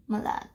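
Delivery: "malade" set apart, ending on a D; pause, then "malade" with its final D sounded; pronunciation model. Shown as a demonstration. Teacher showing how to say it, final D sounded. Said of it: "for malade, you say".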